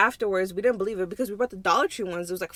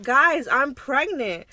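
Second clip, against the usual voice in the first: slow excited announcement; 4 semitones higher, 5 dB louder, much slower than usual. Retold or imitated. Announcing pregnancy to friend.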